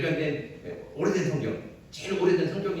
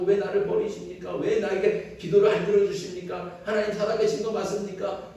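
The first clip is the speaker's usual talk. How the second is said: pleading lament, a bit raised; lamenting cry; 4 semitones higher than usual. Retold or imitated. Psalmist pleading with God in a despairing lament. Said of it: "막 절규하고 탄식하고".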